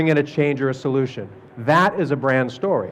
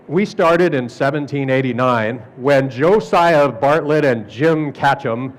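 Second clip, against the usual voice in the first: slow, ponderous company history; website company history; 3 semitones lower, slower than usual. Acted. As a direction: read it out slowly, as a long-winded website intro. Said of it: "You know what it says at the top".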